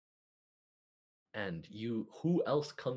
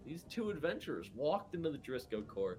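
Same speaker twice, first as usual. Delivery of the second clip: raised, swooping proclamation, slowing at the end; shouted announcement; 5 semitones higher than usual. Acted. Uncle Fun atop the bar hails the heroes, shouting. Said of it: "and shouts".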